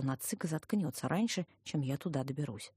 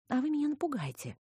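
smiling; 10 semitones higher than usual. A narrator's reading. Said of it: "улыбнулась я".

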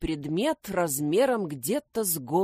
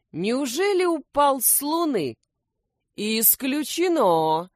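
ordinary delivery, nothing marked

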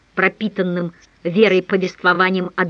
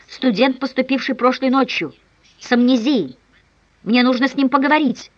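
higher, louder urgent request; urgent, breathless plea; 4 semitones higher, 3 dB louder than usual. Acted. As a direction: push the words out in a hurry. Urgent call to the hospital.

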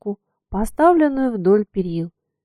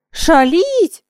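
higher, louder surprised question; surprised echo; 8 semitones higher, 6 dB louder than usual. A narrator's reading. Katka to the coachman, surprised echo. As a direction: echo the word in disbelief. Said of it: "удивлённо повторила Катька".

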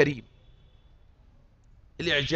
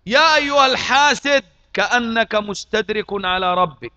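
preaching call-out; 3 semitones higher, 6 dB louder than usual. Acted. Preacher confronting the envious listener, loud accusing call. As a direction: call the envious man out from the pulpit.

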